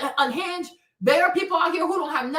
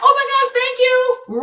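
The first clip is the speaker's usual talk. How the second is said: high, loud gushing "oh my gosh"; over-the-top sweetness to escape; gushing thanks; 9 semitones higher, 6 dB louder than usual. Retold or imitated.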